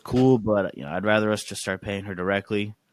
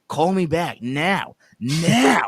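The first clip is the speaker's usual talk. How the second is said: mock stern demand; 5 semitones higher, much slower than usual. Reading angry text, final demand.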